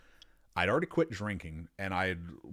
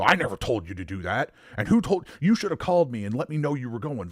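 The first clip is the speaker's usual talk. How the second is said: heated, raised-voice telling-off; boss's angry scolding; 3 semitones higher, 4 dB louder than usual. Retold or imitated. Boss scolding employee who went off alone, angry. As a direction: imitate a boss laying into someone.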